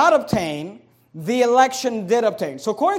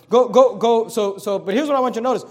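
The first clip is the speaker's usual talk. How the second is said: ordinary delivery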